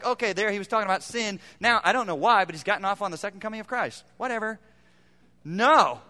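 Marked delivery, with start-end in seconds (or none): 0.0-4.6 offhand dismissive voice. Retold or imitated.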